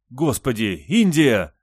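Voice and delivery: scolding, shocked outburst; appalled exclamation. A narrator's reading. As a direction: cry out the name, rising loud and high. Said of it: "воскликнула Ли".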